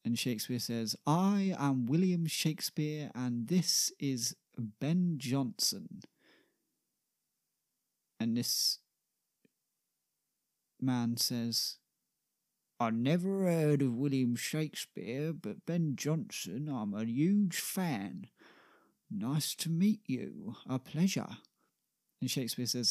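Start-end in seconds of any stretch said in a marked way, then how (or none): 1.1-6.0 slow, drawn-out announcement of names; grand introduction. Acted. Shakespeare introduces himself and Ben to the gruff man, grandly. 12.8-21.4 lightly voiced gruff workman, delighted; gruff man as fan. Shipyard man meets his idol Ben Jonson, gruffly delighted. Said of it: "big gruff man".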